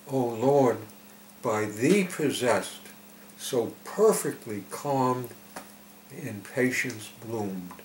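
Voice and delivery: slow, measured prayerful reading; solemn verse recitation. Acted. Preacher reading the message to listeners, slow solemn recitation. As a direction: recite it line by line, with pauses.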